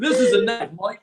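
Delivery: playful Aussie film-hero impression; mock-tough bushman line; Crocodile Dundee. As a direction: quote it in a mock Australian accent. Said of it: "you know, Crocodile Dundee".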